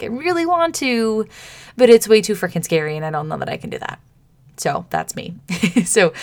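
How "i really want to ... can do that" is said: scared younger self. Retold or imitated. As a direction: play your timid self who wants it but is scared. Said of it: "I'm like".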